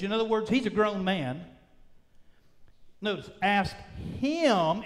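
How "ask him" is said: him set apart after a beat; stress on HIM. Shown as a demonstration. Preacher showing the verse's emphasis, stress on HIM. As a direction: lean on the word him.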